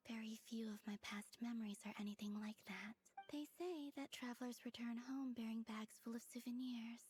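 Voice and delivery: breathy, hushed murmur throughout; hushed whisper. Acted. Soft whispered voice.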